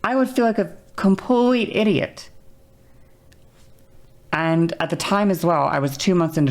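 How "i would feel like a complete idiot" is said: mock self-conscious. Shown as a demonstration. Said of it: "That's what I realized".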